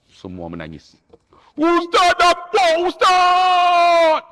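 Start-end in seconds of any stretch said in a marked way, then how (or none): 1.6-4.2 high, loud cry of joy at seeing the Kaabah; pilgrim finally seeing the Kaabah, shouting with joy; excited shout. Retold or imitated. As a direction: burst out overjoyed, much higher.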